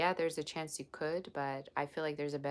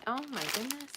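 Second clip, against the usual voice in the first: excited gasp; 9 semitones higher than usual. Real, not acted. Gift reveal.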